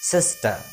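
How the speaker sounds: सिस्टर with the final r muted, sistə; silent r. Shown as a demonstration. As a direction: drop the r at the end of सिस्टर. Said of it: "थोड़ा सा silent करेंगे".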